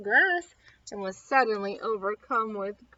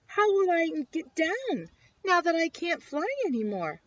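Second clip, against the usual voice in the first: scared; 5 semitones higher, 3 dB louder than usual. Acted. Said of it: "Buzzy was scared".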